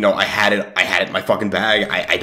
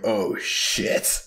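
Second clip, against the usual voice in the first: whispered oh shit; 6 dB quieter than usual. Retold or imitated. Cop lights flashing behind them.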